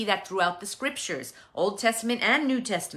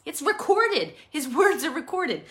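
high, thrilled gushing; excited; 5 semitones higher than usual. Pretend. Congregation member imagined thrilled at hearing God's sermon, excited. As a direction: gush like you just found out God preached. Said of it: "you'd be like".

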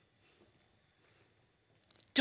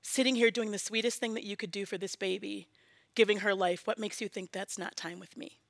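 still small voice; 7 dB quieter than usual. Retold or imitated. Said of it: "in a still small voice".

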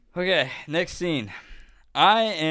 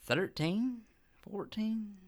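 put-on Southern drunk accent; 6 semitones higher, 7 dB quieter, much slower than usual. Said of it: "stuck in the Southern accent".

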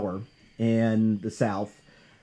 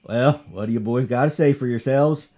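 put-on Southern sheriff accent. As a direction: ask the boys in a mild Southern sheriff accent. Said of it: "I'm gonna try to do a Southern accent here for the sheriff".

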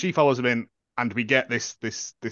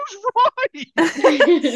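confused; 5 dB louder than usual. Retold or imitated. Confused at the name Roy.

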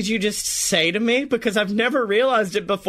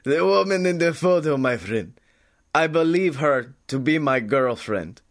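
mock Watto; 3 semitones lower than usual. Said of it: "he's now going full Watto".

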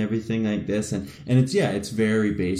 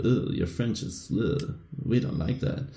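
softer mock French accent slipping into German; fake French accent, German-sounding; 5 dB quieter than usual. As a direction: imitate disgusted French people in a bad accent. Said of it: "that was actually more of a German accent".

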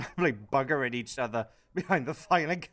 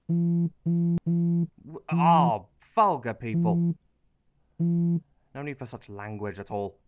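louder, prissy outrage at rude people; affronted; 4 semitones higher, 4 dB louder, slower than usual. Acted. MP offended by vulgar shouting, loud affronted gasp. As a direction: recoil like a scandalised aunt.

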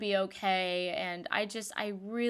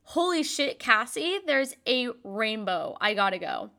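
excited rainbow spotting. Retold or imitated. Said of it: "and I'm like".

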